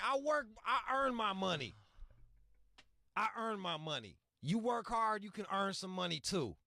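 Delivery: upset lecture. Retold or imitated. To the greedy sellers, an indignant scold. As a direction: lay down the law about earning money.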